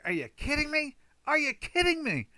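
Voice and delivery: high, loud mock outrage; exasperated yell. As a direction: yell it at the screen in disbelief. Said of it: "as loud as I can say it".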